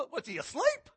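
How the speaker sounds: high, loud teasing question; mocking taunt. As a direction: sneer at their sleeping god. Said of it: "Elijah starts mocking them".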